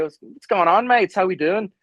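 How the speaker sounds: put-on breezy Aussie-accent greeting; American slinging an Australian accent. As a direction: imitate an Aussie hailing his mates. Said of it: "I wish I had an Australian accent".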